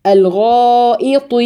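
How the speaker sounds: الغائط slowly with heavy غ and ط, thin همزة; correct recitation. Shown as a demonstration. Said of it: "فخامي الطاء". (الغائط بهمزة مرققة وطاء مفخمة)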